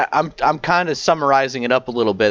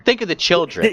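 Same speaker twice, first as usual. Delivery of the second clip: higher-pitched mom playing the mom card; mock mom tone; 5 semitones higher, faster than usual. Mocking a mom playing the mom card, mock mom tone. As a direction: imitate a pleading, righteous mom. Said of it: "It's just that tone".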